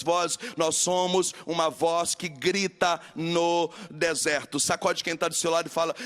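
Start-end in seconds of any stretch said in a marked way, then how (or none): 0.6-4.6 slow proclamation. Acted.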